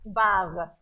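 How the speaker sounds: Bar in a light Israeli accent; short Israeli-accented Bar; Israeli pronunciation. Shown as a demonstration. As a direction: say Bar as a borrowed Hebrew word, Israeli-accented. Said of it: "you know what people say?".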